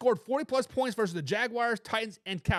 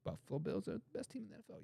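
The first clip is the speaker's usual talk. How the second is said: much softer, fast throwaway reread; soft rushed aside; quick mutter; 14 dB quieter, much faster than usual. Shown as a demonstration. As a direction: mutter it fast under your breath. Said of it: "I know you meant Lions".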